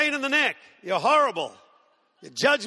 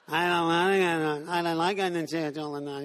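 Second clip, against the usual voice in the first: whiny grown-up; 5 semitones lower than usual. Retold or imitated. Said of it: "who haven't lost that whiny thing".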